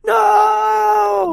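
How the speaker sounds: high, loud no; hammed-up anguished cry; high mock shout. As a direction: wail it in mock horror. Acted cry of horror.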